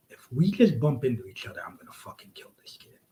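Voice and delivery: near-silent whisper to himself; whispered thought. Retold or imitated. Running at the kid, whispering his worry. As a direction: breathe it like a private fear.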